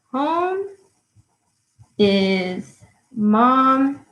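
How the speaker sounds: Home... is mom... and dad, at writing speed; word by word. Shown as a demonstration. Teacher writing the line as she says it, word by word. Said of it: "I'm going to write it here".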